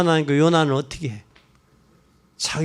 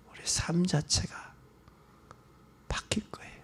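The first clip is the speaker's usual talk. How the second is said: whisper; 3 semitones lower, 6 dB quieter than usual. Real, not acted. Preacher drops to a whisper.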